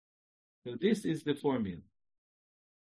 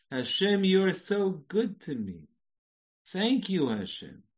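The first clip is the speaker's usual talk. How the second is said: higher and louder, fervent thanks; excited declaration; 7 semitones higher, 4 dB louder, slower than usual. Shown as a demonstration. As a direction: say it with joy, lifted up. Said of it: "Let's say you start a sentence".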